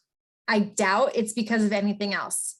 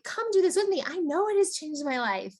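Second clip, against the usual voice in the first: lightly acted eager urging, higher voice; confident, genuine invite; 6 semitones higher than usual. Coach models asking someone to join her, confident and genuine. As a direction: invite with conviction, pitched up. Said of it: "You see the difference in that?".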